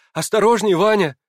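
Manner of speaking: намного выше и громче; крикни вдогонку; крик вслед. A narrator's reading. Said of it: "закричала она мне вслед". (Наташа кричит Ване вслед)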